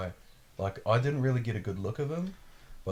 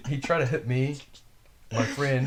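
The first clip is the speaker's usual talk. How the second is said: higher, louder, whiny sarcastic voice; mocking the driver; 4 semitones higher, 3 dB louder than usual. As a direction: mimic his silly excuse with a laugh. Mocks the driver's lame claim.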